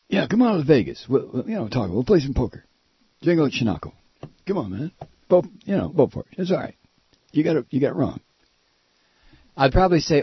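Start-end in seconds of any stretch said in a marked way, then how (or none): 0.1-8.2 lightly imitated wheedling buddy; Bart Kopp. Host imitates his hero luring him to Vegas, cajoling impression. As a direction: coax him along in loose, broken phrases. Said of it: "I do better Bart Kopp".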